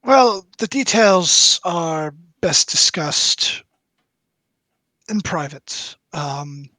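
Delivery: a hint of a discreet lord dangling a job; secretive nobleman. DM voices Ismark, a nobleman.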